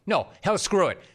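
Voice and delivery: rally the team in mock bravado; defiant rallying cry.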